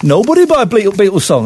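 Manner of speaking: mild mock Brummie accent; a half-hearted go at a Brummie accent. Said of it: "That's my attempt at Brummie accent".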